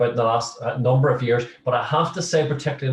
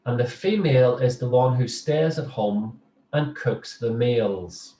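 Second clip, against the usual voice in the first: read slowly. Shown as a demonstration. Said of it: "I'm gonna read it slowly".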